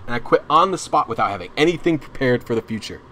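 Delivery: ordinary talk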